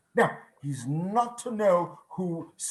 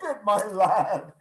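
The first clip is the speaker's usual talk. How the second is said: giddy joy; 4 semitones higher, slower than usual. Acted. Scrooge beams at the boy.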